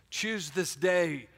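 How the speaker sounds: slowed right down, each word weighed; a deliberate slow repeat for weight; slow emphatic. Shown as a demonstration. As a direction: lean into every word slowly. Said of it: "the Bible says that choose this day".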